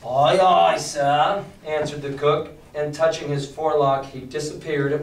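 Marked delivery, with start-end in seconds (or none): 0.0-1.4 louder, falling aye aye; sailor's reply. Acted. Cook answering the captain's order, loud and hearty. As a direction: snap a hearty sailor's acknowledgement.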